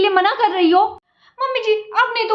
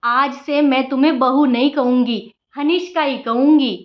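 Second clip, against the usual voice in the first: lightly lowered, motherly mother-in-law voice; 3 semitones lower, slower than usual. Acted. Mother-in-law grandly telling the new bride how things will be, lightly lowered voice. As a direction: play the sweet-talking saas.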